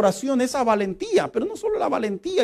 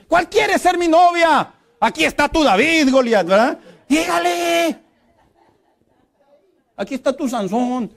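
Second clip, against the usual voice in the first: bold shout; 7 semitones higher, 3 dB louder than usual. Shown as a demonstration. Young man boldly shouting his offer, mock-confident yell. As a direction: brag it loudly, full of swagger. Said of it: "Dile con fe".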